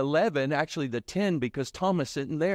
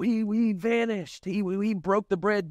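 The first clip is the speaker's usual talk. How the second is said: stammering, raised mock report; hammed-up stumbling astonishment; mock bewildered disciples; 5 semitones higher than usual. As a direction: act a flustered, high-voiced retelling. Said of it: "They don't go back to the apostles and go".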